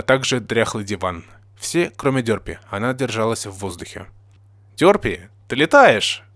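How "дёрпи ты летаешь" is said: higher, louder astonished question; surprised. A narrator's reading. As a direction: ask in open amazement. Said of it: "спросил с удивлением я".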